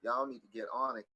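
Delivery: loud, drawn-out scolding tirade; emphatic, fed-up telling-off; exasperated rant. Retold or imitated. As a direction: lay into all of them, raising your voice. Ranting at men about hair.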